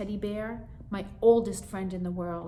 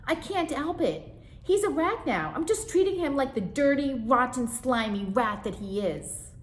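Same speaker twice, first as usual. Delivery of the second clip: much higher, louder whine; whining sister; 7 semitones higher, 6 dB louder than usual. Acted. Sister whining to mother, much higher and louder. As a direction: whine to mom, full of spite. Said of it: "whined Zipper Nose".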